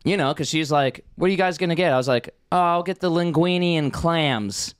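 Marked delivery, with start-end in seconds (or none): 1.2-4.7 light Boston accent in retold flirting; lilting Boston accent on the quotes. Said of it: "Why are you talking like you're from Boston?".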